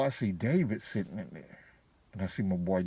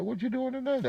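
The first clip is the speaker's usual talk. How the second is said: inviting woman. Retold or imitated. Shell inviting him over.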